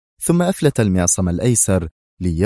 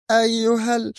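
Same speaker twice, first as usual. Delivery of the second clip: cut-off cry; 13 semitones higher than usual. A narrator's reading. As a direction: start to curse him and break off as you faint. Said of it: "صرخت وهي تقاوم". (صرخة عالية الطبقة تنقطع فجأة)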